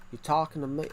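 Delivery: half-hearted New York accent. Shown as a demonstration. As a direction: have a shaky go at New York. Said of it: "Do a New York accent".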